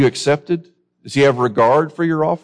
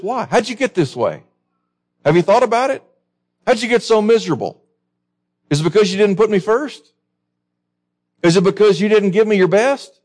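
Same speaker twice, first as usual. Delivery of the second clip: higher, searching questions as God; God pleading; 7 semitones higher than usual. Acted. God questioning angry Cain, voiced high and pleading.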